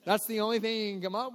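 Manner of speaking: high, loud mock horror; horrified. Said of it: "you're like".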